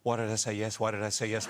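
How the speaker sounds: ordinary talk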